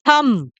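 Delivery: थंब said "tham", ending on m; teacher's model थंब, "thum"; correct silent-b "thumb". Shown as a demonstration. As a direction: close थंब on a hum, no b. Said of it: "इसकी real pronunciation है".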